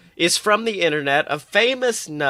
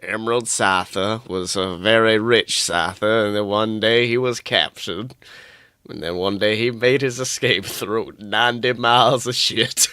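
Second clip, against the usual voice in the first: lower, deadpan movie-recap voice; mock trailer narrator; 5 semitones lower than usual. Listener recaps the story as a lower mock movie trailer narrator. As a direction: sum up the plot like a film trailer.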